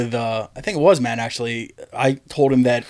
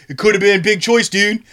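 retold insistence; 7 semitones higher than usual. Acting out a heated argument.

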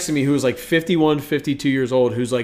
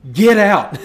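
imitated Asian accent; 5 semitones higher, 4 dB louder than usual. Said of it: "in a more Asian voice".

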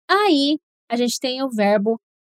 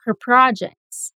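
She never, deserts, her projects, slowly in chunks; slow, chunked repeat; much slower than usual. Shown as a demonstration. Teacher paces the class through the sentence slowly. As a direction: spell it out slowly with pauses. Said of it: "Say it with me".

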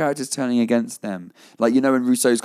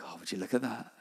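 understated deadpan quote; 15 dB quieter than usual. Retold or imitated. Desmond's deadpan reaction to helicopter.

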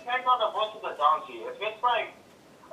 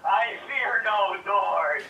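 slow, loud, grand; hammed-up bravado; mock heroic declaration; 3 semitones higher, 7 dB louder, much slower than usual. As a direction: boom it like an action hero. Dramatic declaration.

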